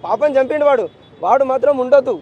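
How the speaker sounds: real anguish pushed out loud; loud demand. Real, not acted. Father demanding justice for daughter.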